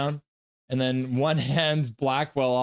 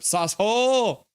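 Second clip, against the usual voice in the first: high, drawn-out mock holler; playful high call; mock exclamation; 6 semitones higher, 3 dB louder, slower than usual. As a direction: stretch it out like a silly battle cry. Shouting a chat catchphrase.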